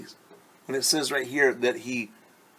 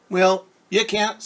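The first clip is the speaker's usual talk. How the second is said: blunt bee; 8 semitones higher, 7 dB louder than usual. Acted. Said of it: "said Bumblebee".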